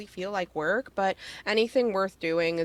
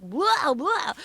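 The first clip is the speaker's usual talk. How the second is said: higher, punchy mock hype; overdone streamer voice; 6 semitones higher than usual. Mocking fake streamer hype while telling the host. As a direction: ham up the blah like a fake streamer. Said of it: "it's not like".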